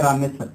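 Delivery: रामेश्वर shortened to Ramesar; distorted pronunciation. Shown as a demonstration. Teacher imitating villagers calling रामेश्वर Ramesar. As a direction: say रामेश्वर loosely as ra-me-sar. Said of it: "उसको कह दिया जाता है".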